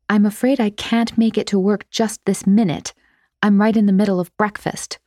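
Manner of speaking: prim, proper maid answering; formal phone voice. Acted. Phone call.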